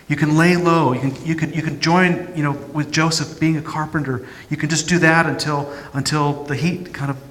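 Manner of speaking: anxious parent pleading with a son to come home; mildly voiced parent begging him home; worried parent voice. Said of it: "I can hear the parent".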